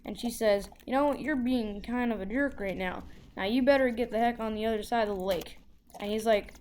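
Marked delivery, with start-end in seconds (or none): 0.9-5.6 mildly heated imitation of a scolding mom; retold telling-off with a touch of anger; mad mom. Mom telling off the kid who talks back, mildly mad. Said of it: "my mom gets super mad".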